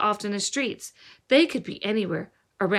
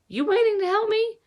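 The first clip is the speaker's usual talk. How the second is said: much higher voiced working man, offhand; gruff worker voice; 12 semitones higher, 3 dB louder than usual. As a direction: toss the question down like a store worker. Store worker speaks to Palmer.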